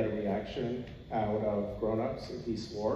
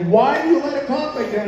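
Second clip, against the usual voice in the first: indignant; 13 semitones higher, 8 dB louder than usual. Retold or imitated. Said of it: "everyone was like".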